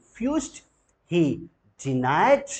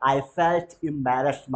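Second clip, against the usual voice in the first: slow model phrase; much slower than usual. Shown as a demonstration. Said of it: "repeat करिए".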